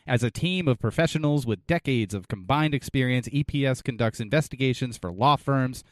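measured, professional sponsor read. Acted. Co-host lists the detective agency's services, ad read. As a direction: list the services like a commercial.

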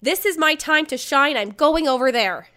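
thrilled at a big chance; mock excited rush. Excited drunk self quoted.

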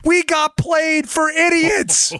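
high-pitched, slow, drawn-out wail; exasperated cry. Real, not acted. Exasperated verdict on the hoax.

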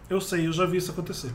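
mouth full. Real, not acted. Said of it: "tô falando com a boca cheia de pão de queijo".

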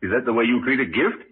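laugh, then a mock reproach; lightly amused ribbing; teasing laugh. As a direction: chuckle while you scold him lightly. Doctor teases John about gift.

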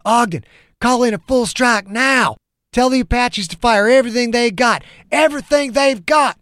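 high, loud urgent plea rising on the repeat; desperate shout. A narrator's reading. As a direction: yell it over the chaos. Soldier urges airstrike mid-battle.

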